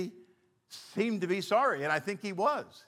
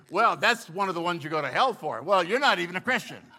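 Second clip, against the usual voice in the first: judgmental; 6 dB louder than usual. Retold or imitated. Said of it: "from my training".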